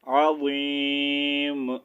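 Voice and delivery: عظیم slowly drawn out, ending on a silent meem; stopping pronunciation. Shown as a demonstration. Teacher models the stop for students, عظیم with a silent final meem. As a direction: say عظیم slowly and close on a still meem with no vowel. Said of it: "جب ہم اس کو ساکن کریں گے تو اس کا sound آئے گا".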